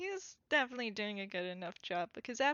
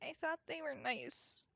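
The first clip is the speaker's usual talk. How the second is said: soft, halting near-whisper, slightly higher; 4 semitones higher, 6 dB quieter than usual. Acted. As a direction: confide it softly, stumbling at the start. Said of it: "very softly whisper".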